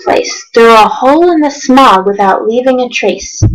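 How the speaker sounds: rhythmic read-aloud of rhyming verse; storybook narration. A narrator's reading. Reading Dr. Seuss to viewers, lively storybook narration. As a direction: read it like a bedtime picture book.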